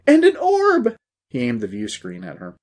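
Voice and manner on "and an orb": very high, loud excited cry; shrill-pitched amazed shout; blurted out. A narrator's reading. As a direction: burst out with the discovery. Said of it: "Dusty blurted out, followed by".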